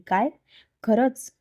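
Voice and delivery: shocked high rising question; a startled wife who can't believe it; sudden disbelief, pitch jumping up; surprised. Acted.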